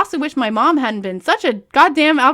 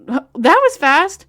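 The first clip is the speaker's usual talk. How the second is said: laughing; 6 semitones higher, 6 dB louder, much slower than usual. Real, not acted. Reader laughs at absurd plot.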